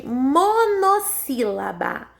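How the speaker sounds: "monossílaba" drawn out syllable by syllable; sílabas destacadas. Shown as a demonstration. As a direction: say "monossílaba" slowly, stretching each part. Teacher enunciates new term. (monossílaba bem articulada e pausada)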